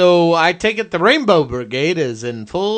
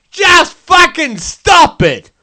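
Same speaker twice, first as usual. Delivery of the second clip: slow, higher shouted Australian rant; mock Aussie yell; 9 semitones higher, 4 dB louder, slower than usual. Jim Jeffries impression scolding Lindsay Lohan, slow shout. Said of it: "Jim Jeffries this up".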